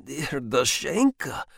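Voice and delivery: slow, mild moan. Acted. Husband moans to his wife, slow and pleading. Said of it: "moaned Strishin".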